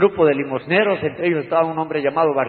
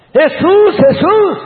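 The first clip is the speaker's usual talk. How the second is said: very high, loud desperate shout; shouting louder; 11 dB louder, much slower than usual. Retold or imitated. Beggar shouting louder to Jesus over the crowd. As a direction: yell his name even harder. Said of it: "más fuerte gritaba".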